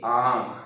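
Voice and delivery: आंख with a long vowel through mouth and nose; nasalized vowel. Shown as a demonstration. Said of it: "उच्चारण मुंह और नाक दोनों से होता है".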